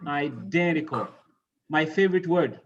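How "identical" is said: Identical with the weight on "den"; iDENtical, clearly stressed. Shown as a demonstration. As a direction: lean on the second syllable of Identical. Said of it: "So the same for all of these".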